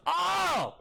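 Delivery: a sudden high shout toward the back room; yell. Acted. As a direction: call out loudly for the innkeeper. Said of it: "he just yells".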